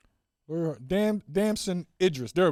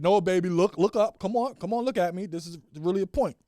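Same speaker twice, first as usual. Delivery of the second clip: higher, insistent coaxing; pleading dad getting insistent; urging parent; 4 semitones higher, 4 dB louder than usual. Acted. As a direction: urge a distracted child to pay attention. Dad urging child to look.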